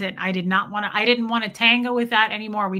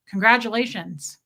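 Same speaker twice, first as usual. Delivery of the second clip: mocking; 4 dB louder than usual.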